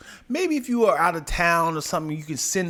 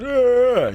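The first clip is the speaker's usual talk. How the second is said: imitated yell; 6 semitones higher, 6 dB louder than usual. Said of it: "and my son is that".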